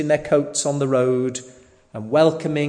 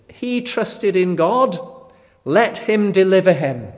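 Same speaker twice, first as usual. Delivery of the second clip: raised, emphatic mock challenge; retold insult; 6 semitones higher, 5 dB louder than usual. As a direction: voice the enemies' challenge with mild scorn. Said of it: "to insult him".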